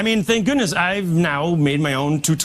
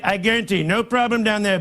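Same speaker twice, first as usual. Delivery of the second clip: Trump impression; 3 semitones higher than usual. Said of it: "So it's like".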